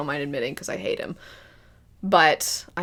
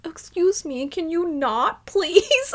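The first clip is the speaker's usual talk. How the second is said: high, fussy put-upon voice; hammed-up Zeke whining; prissy mock Zeke; 10 semitones higher, slower than usual. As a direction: whine it like a prim complainer.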